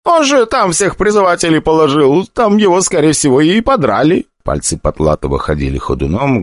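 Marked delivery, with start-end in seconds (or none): 0.0-4.3 higher, frightened pleading; frightened summoner. Acted. The wounded summoner to Stronger, higher and frightened. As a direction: explain in a panic. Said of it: "голос постоянно срывался".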